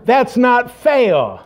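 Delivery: put-on "fair" said as "faiw", slow and high like a little girl; can't say r. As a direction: stretch out "That's not fair" with no R in "fair". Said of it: "She couldn't pronounce her R's".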